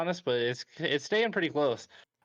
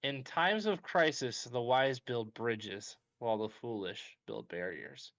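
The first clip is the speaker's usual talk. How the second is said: solemn wise voice; 4 semitones lower, 4 dB quieter, slower than usual. Acted. Host reads wise quote slowly.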